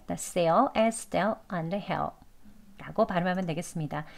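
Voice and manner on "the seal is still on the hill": "seal", "still", "hill" with the L barely sounded; weak L. Shown as a demonstration. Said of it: "을 소리 약하게".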